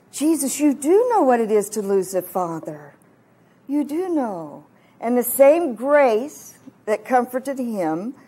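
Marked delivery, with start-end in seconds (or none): 0.1-4.6 emphatic DO in "you do know"; stress on DO. Retold or imitated. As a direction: lean firmly on the word do, as a conviction. Answers with emphatic conviction.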